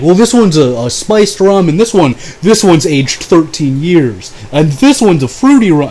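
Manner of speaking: lightly mock the rum lecture; lightly voiced rum snob. Luke explaining the rums.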